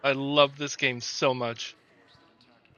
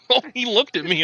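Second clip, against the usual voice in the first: laughing; 9 semitones higher, 7 dB louder than usual. Real, not acted. Startled, laughing.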